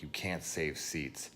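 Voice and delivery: slow, smug repeat of the rude guy; mocking quote. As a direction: drawl it like a smug jerk.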